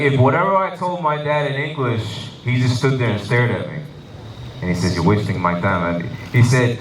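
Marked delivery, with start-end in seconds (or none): 5.0-6.0 low, flat dad voice; a stern father waving his son away; gruff dad. Retold or imitated. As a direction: drop low and brush him off. Dad voiced in a standup story.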